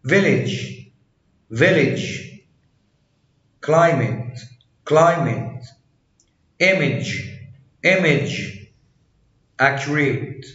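"village", "image" ending in a short "ij", no A sound; silent final A. Shown as a demonstration. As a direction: say climate and accurate with the A swallowed before the T. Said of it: "لا يلفظ حرف ال A".

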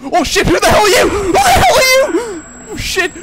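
high, loud terrified yell; terrified shout. Real, not acted. Player meets a stranger, screams in terror.

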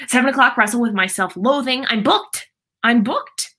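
lightly voiced grouchy movie character, booked rising at the end; quick, hinted impression of a movie grouch; Grinch. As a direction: act out the schedule bit, lifting each "booked". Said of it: "I did my best Grinch impression".

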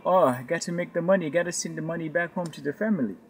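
softly imitated Nigerian driver; mock Nigerian accent, slightly subdued. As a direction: put on a weary Nigerian accent. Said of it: "that's my best Nigerian accent".

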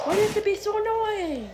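high, singsong mocking echo; mocking whine. Shadow echoing crying Sonic, mocking whine. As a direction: throw the whine back in mockery. Echoing the fake crier's complaint.

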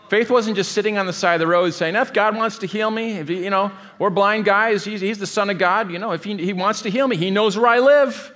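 mock-lazy sing-song; mocking passive believer. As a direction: lampoon the complacent excuse. Mocking lazy Christians' excuse.

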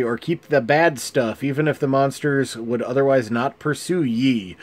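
put-on a light pirate accent, rolling the ye's; mild pirate accent. Reading pirate card text in a light pirate accent. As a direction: play the card text as a half-hearted pirate. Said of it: "I'm gonna do a pirate accent".

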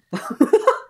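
a sudden high, loud laugh; high burst of laughter. Real, not acted. Streamer cracks up at their own capitalist joke, laughing. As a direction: cackle at your own joke.

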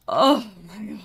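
loud, exasperated groan of dismay; overwhelmed outburst. Real, not acted. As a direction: let out a big, overwhelmed cry. Overwhelmed by crowd of customers.

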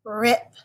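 把rip慢慢读出来; 清楚地读出"Rip"的每个音; sounding out rip. Shown as a demonstration. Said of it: "Take out the er".

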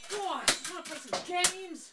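high, whining groan; whiny. Real, not acted. Whining to play games.

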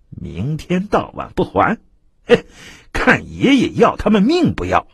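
lightly voiced arrogant constable; gloating bully. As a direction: sneer at his victims. Tao San gloats and threatens.

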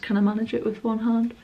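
speaking while pulling hairband on; hairband over the mouth. Real, not acted. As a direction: lips brushed by hairband. Seen 0: Leopard hairband held at lips and chin while stretching it on.

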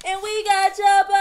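loud, fast, high excited announcement; excited shout. Real, not acted. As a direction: burst out with excitement. Excited food reveal.

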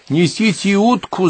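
high, drawn-out call through the house; shouted order. A narrator's reading. Hostess calls to servants across the house, shouting. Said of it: "закричала Полонская на весь дом".

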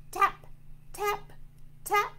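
short, high, spaced taps; mallet taps. Pretend. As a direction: imitate croquet mallets hitting balls. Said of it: "hitting the balls and going tap".

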